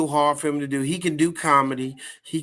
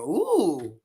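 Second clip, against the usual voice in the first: swooning ooh; 3 semitones higher than usual. Retold or imitated. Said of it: "I didn't hear no woman going".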